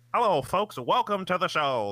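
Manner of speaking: put-on very high, old-timey transatlantic radio announcer voice. Describing a man's whole demeanor, the speaker imitates his old-timey radio announcer voice. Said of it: "the old timey radio voice where it's like".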